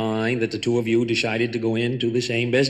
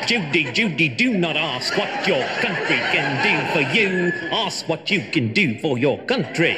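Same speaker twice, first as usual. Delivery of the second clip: higher, lighter take on the famous line; Bobby's brand new voice; 5 semitones higher than usual. Shown as a demonstration. Bobby tries his new voice on Jack's famous line. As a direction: speak it up high with the edge taken off. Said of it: "that's very good, Bobby. Perfect. Now you've got a brand new voice".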